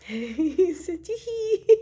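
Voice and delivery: very high, giggly tee-hee; giddy giggling. Real, not acted. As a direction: squeal it through a fit of giggles. Giggling over the couple.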